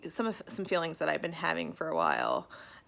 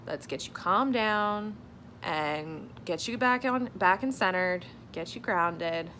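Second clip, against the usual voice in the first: therapist voice; 2 semitones higher than usual. Retold or imitated. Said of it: "this is my version of what she said".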